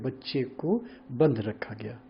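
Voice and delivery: slow, बंद set apart from रखा गया; word break after बंद. Shown as a demonstration. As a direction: keep बंद and रखा as two separate words. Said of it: "ये शब्द है".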